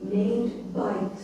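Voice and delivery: big, theatrical storytelling; maximal drama. Shown as a demonstration. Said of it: "I really want maximal emotion".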